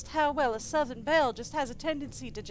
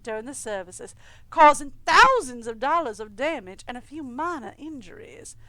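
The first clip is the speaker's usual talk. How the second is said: steady newsreader delivery of the article; a lightly voiced news anchor; news read. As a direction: read it like a local news report. Reads in-game newspaper aloud.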